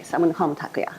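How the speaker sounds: whispered aside. Real, not acted. Aside to audience about the name.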